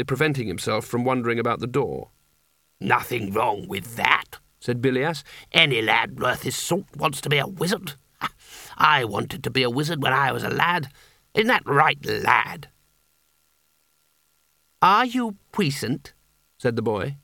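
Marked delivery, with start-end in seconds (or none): 2.8-12.7 lightly voiced hearty wizard humouring a child; jovial old wizard. Bilias voiced jovially to boy. 14.8-16.1 put-on high, slow, solemn boy's question; boy's challenge. Boy demands wizard's power.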